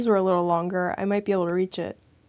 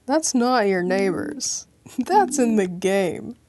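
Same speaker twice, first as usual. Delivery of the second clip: Three Dog impression; slower than usual. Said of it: "As Three Dog likes to say".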